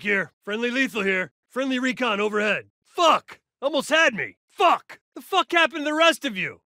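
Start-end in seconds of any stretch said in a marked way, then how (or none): 2.8-4.4 sharp shouted curse; angry shout. Acted. Frustrated curse under fire. 4.5-6.6 angry shout. Acted. Cursing, teammates gone.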